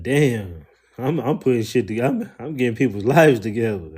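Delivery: replaying your own hype with a grin; excited exclamation. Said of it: "I was like".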